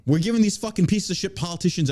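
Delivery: worked-up New Yorker; New York mode. Real, not acted. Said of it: "I'm still in New York mode".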